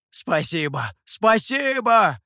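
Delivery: second one high, loud, slow; gushing thanks. A narrator's reading. Mikhou gushingly thanks the master for lamb. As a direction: overflow with thanks.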